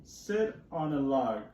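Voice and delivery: slow, lightly voiced cat; cat's line again. Teacher rereading the cat's line, slow and plain-ish. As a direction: repeat the cat's order, slow and even. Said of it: "So the cat says".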